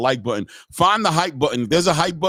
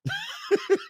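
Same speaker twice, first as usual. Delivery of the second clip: high squealing laugh; real laugh, high and breathy; burst of laughter; 6 dB quieter than usual. Real, not acted. Laughing at retold fight.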